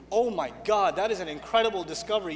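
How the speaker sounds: low-pitched mock amazement; dry sarcastic wonder; sarcastic awe. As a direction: pretend to be impressed by the obvious. Mocking an obvious seminar finding.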